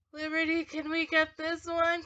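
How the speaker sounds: lightly voiced begging little sister; imitating sister's plea. Voicing sister's plea in a story.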